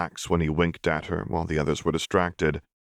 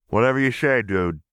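put-on higher, louder dismissive girl; mouth full of gravy; 6 semitones higher, 4 dB louder than usual. A narrator's reading. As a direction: brush him off mid-chew. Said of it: "Vi said through mouthful".

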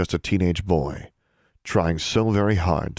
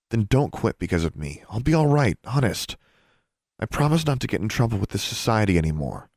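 lightly voiced sister, pitched higher; higher, earnest promise in a girl's voice; earnest younger sister; 4 semitones higher than usual. Sister urges brother not to quit, earnest.

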